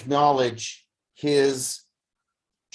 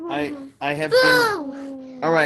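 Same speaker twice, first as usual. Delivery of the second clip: real tears breaking through the words; 13 semitones higher, 4 dB louder than usual. Real, not acted. Teacher overcome with feeling mid-lecture, voice breaking into tears.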